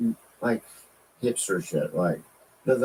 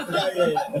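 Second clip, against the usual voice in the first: Mexican accent; 7 semitones higher than usual. Shown as a demonstration. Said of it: "won't do a Mexican accent".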